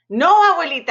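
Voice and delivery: put-on high, loud pleading cry of a scared kid; frightened cry. Scared boy pleading with his grandmother, high frightened cry. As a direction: beg grandma not to let it happen. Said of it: "I cried".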